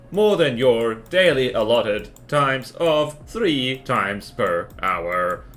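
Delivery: cold dystopian robot manager; deadpan machine boss issuing orders. Acted. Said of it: "I'm doing my dystopian robot manager impression".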